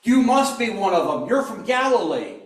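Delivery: loud, insistent accusation; pressing accusation. Acted. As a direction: push him, sure of it. Woman presses Peter.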